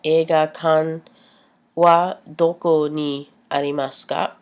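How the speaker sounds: careful Japanese question, rising at ka; Japanese phrase. Shown as a demonstration. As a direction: model the polite Japanese question. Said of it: "so you would say".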